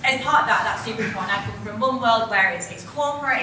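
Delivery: shouting. Real, not acted. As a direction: project loudly to the back of the room. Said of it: "I'll just shout".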